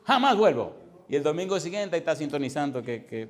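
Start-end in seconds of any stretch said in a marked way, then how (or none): 0.0-0.8 mock vow, higher and brisk; retold self-annoyance. Caller cross with herself over the program, mock indignant. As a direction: imitate her swearing off the program, pitched up. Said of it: "ese es mi coraje conmigo misma".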